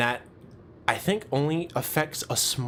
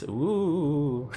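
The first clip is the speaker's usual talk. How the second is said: long drawn ghostly "ooh"; mock spooky ooh; 2 semitones higher than usual. Spooky noise after creepy locations.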